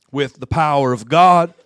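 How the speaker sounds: preaching at full force. Real, not acted. Preacher building to a climax.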